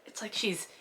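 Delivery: hushed, breathless aside; whisper. Real, not acted. Reader muttering in disbelief at the book, whispered.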